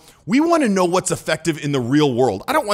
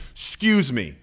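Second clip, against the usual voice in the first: "excuse me" lower and firm, with command; authoritative excuse me; 4 semitones lower, slower than usual. Shown as a demonstration. Speaker asserting authority with hand out, firm excuse me. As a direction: cut them off with a firm "excuse me".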